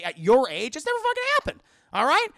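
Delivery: high, loud mock scolding; scolding yell. Obi-Wan yelling at Anakin to chill out. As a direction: shout him down like a fed-up mentor.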